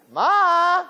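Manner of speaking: high, drawn-out whine; protesting kid. Acted. Kid answering overexcited mother, high whiny protest. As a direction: whine it in disbelief.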